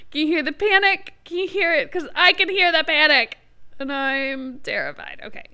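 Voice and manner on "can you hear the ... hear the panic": louder, higher, panicky voice; real panic. Real, not acted. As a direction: let the nerves show. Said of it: "I'm starting to panic".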